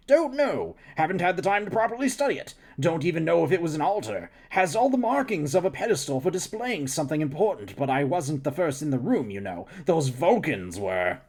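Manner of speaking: lightly voiced eager scientist. Scientist character voice.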